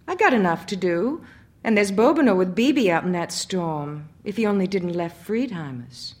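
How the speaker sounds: loud, anxious outburst; panicking about her family; frightened. Acted. Frantic wife fears for family.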